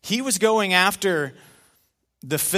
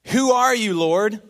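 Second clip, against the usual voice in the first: startled Saul; 5 semitones higher, 4 dB louder than usual. Acted. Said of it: "Just get in character".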